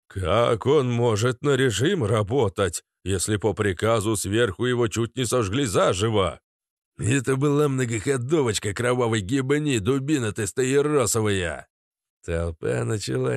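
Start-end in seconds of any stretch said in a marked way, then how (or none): 0.1-11.7 angry. Acted. Heated quarrel continues.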